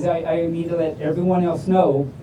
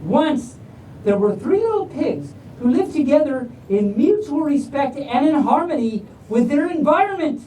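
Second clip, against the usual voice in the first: slightly higher, bright storyteller read; storybook reading; 4 semitones higher than usual. Acted. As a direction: read it like a bedtime tale to kids. Starts reading a bedtime story.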